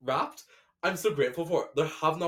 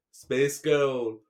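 LA accent; 4 dB louder than usual. Shown as a demonstration. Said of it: "Space Ghetto in a L A accent".

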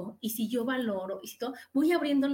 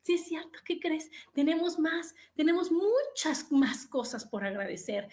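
realizing; 3 semitones higher than usual. Retold or imitated.

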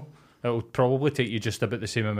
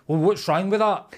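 higher, indignant innocence; mock creepy guy; 7 semitones higher, 3 dB louder than usual. Woman imitating a creepy bar customer, higher and indignant. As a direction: play it falsely innocent. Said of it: "creepy guys who would be like".

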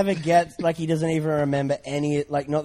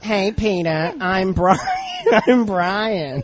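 mock Brian voice, loud and laughing through it; a wrong, giggly Family Guy Brian; strange Brian impression; 3 semitones higher, 3 dB louder, much slower than usual. Impression show spoof, laughing badly voiced Brian. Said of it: "the impressions are just real strange".

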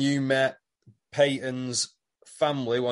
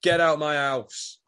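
punchy, raised-voice retold order; mock angry dismissal; 3 semitones higher, 4 dB louder, slower than usual. Toadie kicking Harold out of his house, mock anger. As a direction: act out throwing someone out, a bit louder.

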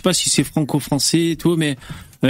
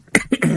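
raclement de gorge. Real, not acted. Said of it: "Je m'étouffe".

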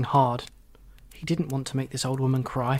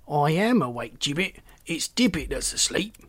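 indignant little toad; 3 semitones higher than usual. Acted. Second toad character.

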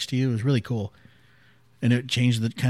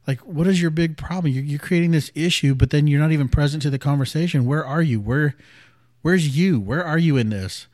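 higher-pitched mock confrontation; retold arguing; 4 semitones higher than usual. Coach confronting him during their argument, imitated in an arguing tone. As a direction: imitate her exasperated challenge, pitched up. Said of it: "we were kinda arguing and she was, kept saying".

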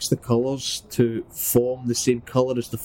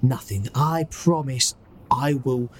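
higher-pitched, put-on reassuring voice; reassuring Petey in Cockney; 4 semitones higher than usual. Petey promising to get the prisoner out, reassuring put-on accent. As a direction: comfort the captive in mock Cockney. Petey coaxes the robot to talk.

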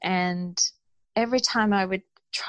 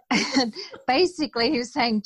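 ordinary talk, nothing marked

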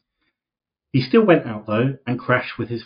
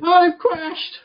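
sudden high excited cry; mock racing-driver alarm; crash exclamation. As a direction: yelp it like a driver who just crashed. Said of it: "not crash as in".

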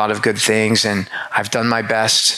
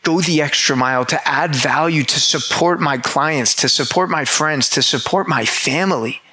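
inner question; 4 semitones higher than usual. Retold or imitated. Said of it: "it made me think".

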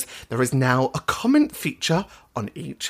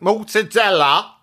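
slow, showy Italian pronunciation; Italian accent; 3 semitones higher, 4 dB louder, slower than usual. Shown as a demonstration. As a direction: put on a hammed-up Italian accent. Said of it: "that's a beautiful Italian accent".

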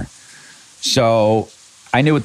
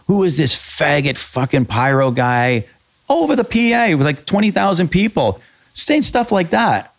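mocking a yell over the PA, pitched up high; imitating angry yell; 8 semitones higher than usual. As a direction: ham up the rock star's furious rant. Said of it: "and he goes".

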